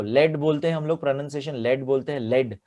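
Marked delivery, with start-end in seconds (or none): 0.0-0.4 लेड said as "led" with short e; pronounced led. Shown as a demonstration. Teacher showing students the metal word, लेड as led. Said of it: "तो अब इसका pronunciation देखो".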